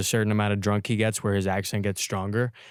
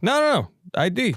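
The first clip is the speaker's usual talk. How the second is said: insistent pool player; 12 semitones higher, 4 dB louder than usual. Retold or imitated.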